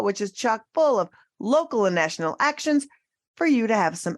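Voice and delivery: lively, punched-up announcer copy; promo read. Acted. Host plugging an activism training series to listeners, promo read. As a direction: pitch it to listeners, lifting questions and punching key words.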